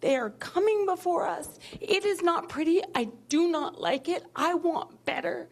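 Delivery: real heated, emphatic insistence. Real, not acted. Board member admitting she hates backing this policy, heated and emotional. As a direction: get worked up, leaning hard on key words. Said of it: "I'm getting heated".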